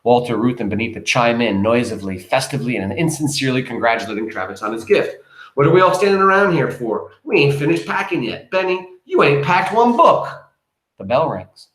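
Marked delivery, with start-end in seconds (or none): 5.5-10.3 bossy rallying. Acted. Mama rallying family to pack.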